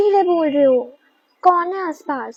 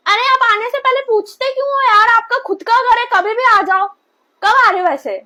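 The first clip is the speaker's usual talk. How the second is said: higher, louder fake-sweet welcome; sugary; 8 semitones higher, 5 dB louder than usual. Wife fakes sweetness to her parents on phone, sugary. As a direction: sound overly welcoming.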